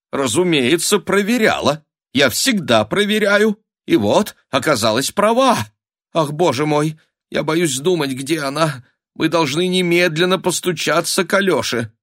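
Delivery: high, anxious mother's voice; rising panic, voice climbing; a mother in night alarm; frantic countess. A narrator's reading.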